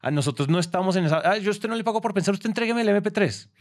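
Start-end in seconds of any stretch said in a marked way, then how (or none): 1.2-3.5 high, fast mocking client voice; mocking stingy client. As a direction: mimic a dismissive client, quick and high.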